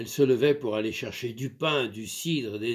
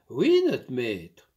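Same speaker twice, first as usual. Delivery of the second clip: slow, obedient answer; meek servant; 4 dB louder, slower than usual. Acted. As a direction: maid agreeing to her master, meek. Maid submits again.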